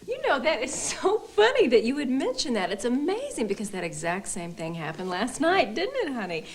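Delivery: high, overeager delight; gushing. Acted. Wife telling therapist about last night, gushing. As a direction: gush in big pitch swoops. Wife gushes to cover for husband.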